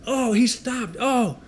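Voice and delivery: lightly voiced high taunting guys; mock gang members. Pastor imitating gang members calling from their truck. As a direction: hoot it like rowdy guys in a truck. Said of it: "And they're like".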